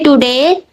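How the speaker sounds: "Today" with a clear T and a long final A, no O sound. Shown as a demonstration. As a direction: pronounce "Today" as T-D-A-Y, dropping the O. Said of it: "Can you say".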